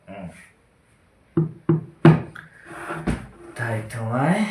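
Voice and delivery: halting, long-paused tipsy monologue; drunk playwright. Acted. Drunk playwright arguing with himself about war and kings, lightly slurred-drunk act. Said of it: "নাট্যকারের কথোপকথন মদ্যপ অবস্থায়".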